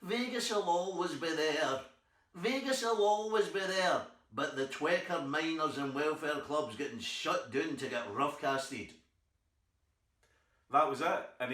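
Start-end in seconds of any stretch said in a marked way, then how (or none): 0.0-8.9 slow, weighty warning; old club booker warning him off Vegas, slow and weighty; solemn old man. Retold or imitated. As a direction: lay it down like a grave pronouncement. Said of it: "He went".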